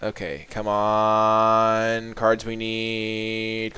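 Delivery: slow, drawn-out plea to the deck; will the right card to come, slowly; pleading. Real, not acted. Player begging the deck for the cards needed, slow pleading.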